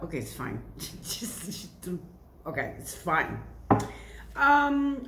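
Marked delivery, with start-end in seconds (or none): none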